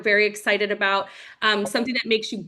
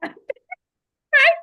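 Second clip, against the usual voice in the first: laughing; 6 dB louder than usual. Real, not acted. Laughs after a retold pep talk.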